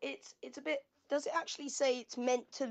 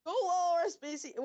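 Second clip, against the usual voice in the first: a slightly louder, mock Northern accent; a playful Northern accent; 5 semitones higher, 4 dB louder than usual. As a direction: bark the order in a Northern English accent. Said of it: "Why are we both doing Northern accents now?".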